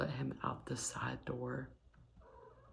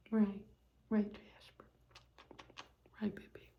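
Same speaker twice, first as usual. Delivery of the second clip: higher, tender words to Jasper; 6 semitones higher than usual. Real, not acted. Baby talk to the cat.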